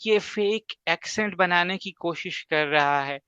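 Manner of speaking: put-on slow, sneering jab at someone's accent; mock critics in a scornful voice. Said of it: "وہ کہہ رہے ہوتے ہیں". (طنزیہ لہجہ)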